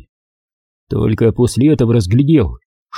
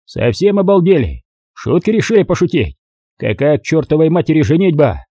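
raised, scolding commander tirade; a moderately raised yelling colonel; angry yelling; 4 semitones higher than usual. Acted. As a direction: tear into the young couple, higher and sharp. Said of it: "сразу заорал на влюблённых".

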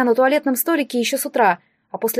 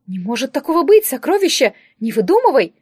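fussy disbelief; 3 semitones higher, 4 dB louder than usual. Acted. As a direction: brush it off while doting. Distributor dismisses girl's story. (ласковое недоверие, повыше)

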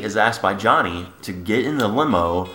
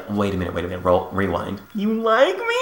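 surprised; 4 semitones lower than usual. Retold or imitated. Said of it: "she's like".

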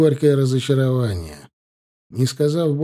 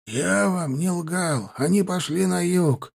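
drawn out; 6 semitones higher, slower than usual. Acted. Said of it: "протянул Вахид".

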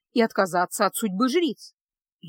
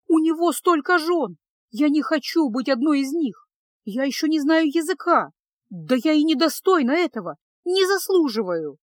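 higher, louder desperate protest; отчаянно протестуя; 4 semitones higher, 4 dB louder than usual. Acted. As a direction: plead your way out in panic. Девушка отчаянно отказывается от брака. (отчаянный протест, выше и громче)

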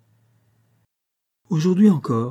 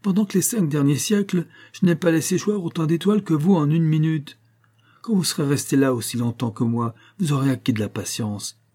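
higher, teasing giant voice; mocking giant; 5 semitones higher than usual. Giant mocks the impatient hero, teasing. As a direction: lecture him on patience with a smirk.

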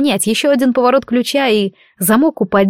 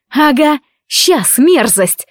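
put-on girl shouting defiance at the creature; defiant shout; 5 semitones higher, much slower than usual. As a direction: spit it back at the monster, shouting. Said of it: "выкрикнула".

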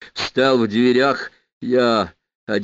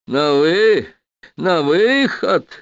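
high, loud, drawn-out mock exclamation; amused retort; 7 semitones higher, 5 dB louder, much slower than usual. A narrator's reading. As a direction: throw it back loudly with a touch of amusement. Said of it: "засмеялся Чаянов". (громко и высоко, с насмешкой)

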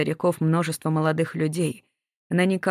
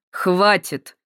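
резкий окрик, громче; оборвать разговор одним словом; резко; 5 dB louder than usual. A narrator's reading. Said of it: "резко оборвал их полицейский". (полицейский обрывает женщин резким окриком)

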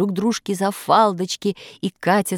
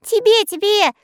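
laughing; 6 dB louder than usual. Acted. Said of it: "засмеялся Скок".

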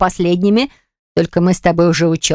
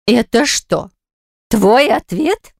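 higher, louder, slow indignant cry; exclaiming loudly; 5 semitones higher, much slower than usual. A narrator's reading. Mother exclaiming at her son's evasive reply, loudly. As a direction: throw the question back at him. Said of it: "воскликнула она громко".

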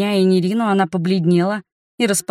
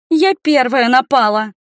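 sobbing confession; 5 semitones higher, 5 dB louder than usual. A narrator's reading. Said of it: "всхлипнула огневичка".

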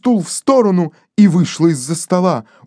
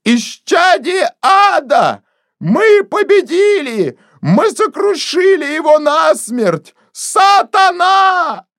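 triumphant scream; 9 semitones higher, slower than usual. Acted. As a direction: scream the victory from the door. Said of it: "крикнула на всю комнату". (Денти кричит на всю комнату, выше и громче)

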